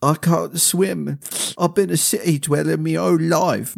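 a timid common woman admitting she can't swim; Melody's voice. A narrator's reading.

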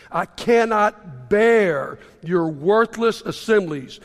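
a lightly voiced God, weary and reproachful, read slowly; scripture reading. Preacher reading Isaiah to the church, weary and reproachful. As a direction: read the Lord's complaint with measured weight.

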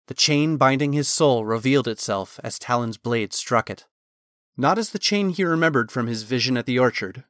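usual speaking voice

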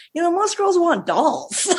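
slow, high, amused fatherly remark; laughing dad. Retold or imitated. Father looking at the photos, slow and laughing. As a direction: chuckle the line out. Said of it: "he goes".

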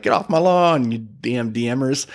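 lightly voiced grumpy old man, drawn out at the end; mock old-man grumbling; disgruntled old man. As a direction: grumble like a cranky old man, half in jest. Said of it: "a disgruntled old man".

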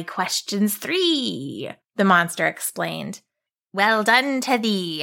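put-on monster blessing the girls. Monster slow rhyme.

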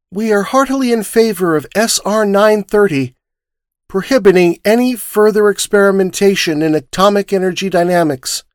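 gray ashes of a voice. Acted. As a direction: recite the evidence emptied of feeling. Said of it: "With the gray ashes of a voice".

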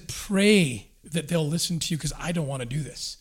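the Lord gently pleading with Joseph, low and hushed; tender Lord voice. Retold or imitated. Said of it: "it's almost like this tender moment".

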